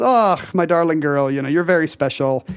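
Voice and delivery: Scottish mother's voice; affectionate Scottish mother with a throaty "och"; Scottish accent. Retold or imitated. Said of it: "That's a great Scottish accent".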